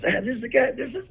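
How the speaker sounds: high-pitched, gushing imitation; excited introduction. Justin presenting him to those backstage, imitated excitement.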